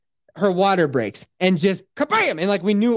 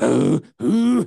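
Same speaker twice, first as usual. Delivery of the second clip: imitated labor breathing; 6 dB louder than usual. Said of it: "She, she is just like".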